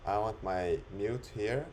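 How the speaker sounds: ordinary talk, nothing marked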